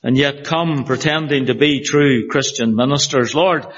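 earnest pulpit prayer voice; steady, earnest prayer read. Acted. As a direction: pray it over the congregation, reverently. Pastor leads congregation in prayer.

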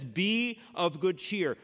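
slow, deliberate Be of good cheer; steady comfort. Retold or imitated. Jesus to Paul in the barracks, slow and firm. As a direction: lay each word down firmly. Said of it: "Jesus comes to him and he says".

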